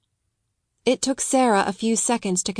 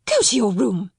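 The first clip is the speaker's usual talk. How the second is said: crying out breathlessly. Acted. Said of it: "cried Miss Minchin breathlessly".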